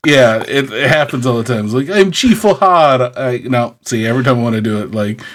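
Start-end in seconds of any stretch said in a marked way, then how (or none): 1.9-3.1 lightly voiced Irish brogue, slightly raised; pirate Irish accent. Host showing his Irish accent turning pirate. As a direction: announce yourself in a hammy brogue. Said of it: "falls into the pirate accent".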